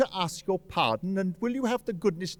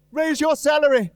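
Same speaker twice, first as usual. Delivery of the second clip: triumphant reveal; 6 semitones higher, 4 dB louder than usual. Acted. Surprise reveal to clerk.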